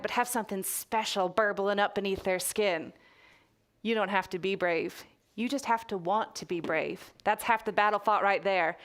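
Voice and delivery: put-on reading in a light Texas accent; storyteller slipping into a mild Texas accent. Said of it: "I'm gonna put on a Texas accent now".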